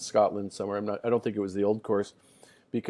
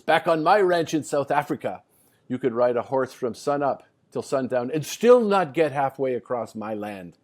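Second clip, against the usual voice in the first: louder, lightly voiced boastful rancher; Fulton Allen; 4 dB louder than usual. South African rancher boasting to Scottish farmer, retold brag. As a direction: retell a brag, pushed a little louder. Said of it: "Fulton, this young guy".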